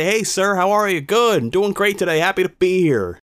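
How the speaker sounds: high-pitched eager-to-please reply; mock politeness. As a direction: play the dutifully cheerful young man. Voicing the compliant answer expected.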